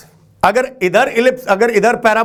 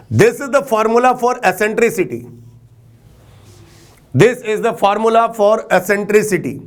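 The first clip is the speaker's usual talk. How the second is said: slow dictation; much slower than usual. Shown as a demonstration. Teacher dictates the formula twice.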